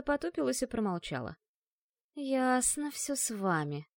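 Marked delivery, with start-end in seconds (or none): 2.1-3.9 медленно, хмуро тянет; протяни хмуро; протяжно. Acted. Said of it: "протянула девушка, хмурясь". (разочарованная девушка протягивает)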